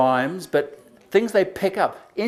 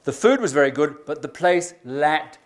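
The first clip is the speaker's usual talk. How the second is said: joke telling. Shown as a demonstration. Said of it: "Here's another one".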